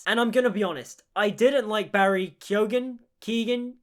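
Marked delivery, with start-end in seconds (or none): 3.2-3.8 "Keegan" said as KEE-gun; tentative raised "Keegan"; alternative pronunciation. Shown as a demonstration. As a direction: try "Keegan" with a hard g. Trying out pronunciations of a surname.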